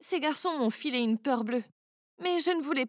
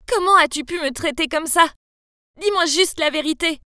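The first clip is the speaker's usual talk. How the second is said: mild yell; 3 semitones higher, 8 dB louder than usual. Acted. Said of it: "j'ai crié".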